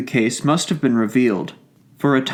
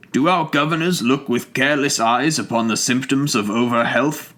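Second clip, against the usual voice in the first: moderate tone. Acted. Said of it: "in a moderate tone asks".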